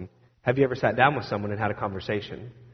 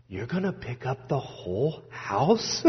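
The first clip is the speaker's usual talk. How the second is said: put-on little boy's question; 7 dB quieter, slower than usual. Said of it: "he looked at me and he says".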